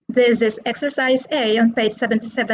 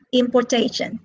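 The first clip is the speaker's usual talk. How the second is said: "importation" said impor-TA-tion; stress on third syllable; faster than usual. Shown as a demonstration. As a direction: hit the TA in "importation". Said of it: "they are stressed on the third syllable".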